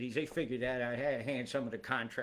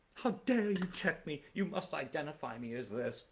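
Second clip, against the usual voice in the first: mock indignation; 5 semitones higher than usual. Challenging facial recognition checks in a burqa, mock indignation.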